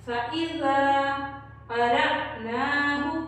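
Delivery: slow chanted Quran recitation. Shown as a demonstration. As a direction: recite slowly for the class to follow. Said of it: "इसको दोबारा से दोहराएं मेरे साथ".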